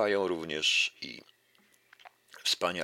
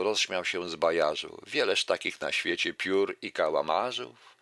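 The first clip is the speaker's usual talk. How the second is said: lively recital of a verse fable; fable reading; 3 dB louder than usual. Acted. Lecturer reciting a fable to the audience, lively recital. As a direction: read the fable out to the audience with relish.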